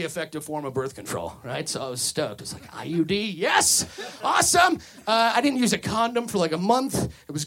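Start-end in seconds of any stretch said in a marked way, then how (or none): 2.7-4.8 excited cheer. Retold or imitated. Retelling his excited reaction.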